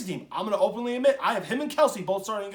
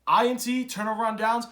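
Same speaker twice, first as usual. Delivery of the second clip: normal talking voice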